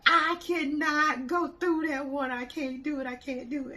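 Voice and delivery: high, loud panicky protest, easing off; mock panic at the water; scared refusal.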